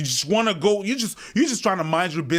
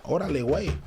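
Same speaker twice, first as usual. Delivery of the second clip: Mexican slang; faster than usual. Shown as a demonstration. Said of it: "That's Mexican".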